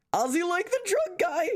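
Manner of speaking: very high excited squeal; high squealing joke. Pretend. Mocking the Aussie pronunciation.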